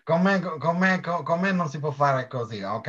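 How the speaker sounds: loud high Italian-American boss voice; imitating Zio Rocco. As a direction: boom it out like Rocco. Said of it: "I love how he goes".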